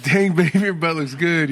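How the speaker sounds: loud, high admiring catcall. Retold or imitated. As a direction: call it out like a smitten husband. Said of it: "I was like".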